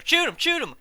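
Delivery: shrieking high excited yell; loud mock swamp holler; swamp people yell. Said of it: "swamp people kinda style".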